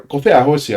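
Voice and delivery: careful Tongan pronunciation; Tongan phrase. Shown as a demonstration. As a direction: Tongan "Gofe ahosi", gofe punched, falling end. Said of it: "I, I'm saying".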